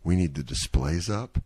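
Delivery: rally the staff like it's D-Day, voice dropped; a hint of a gung-ho manager. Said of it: "where he's like".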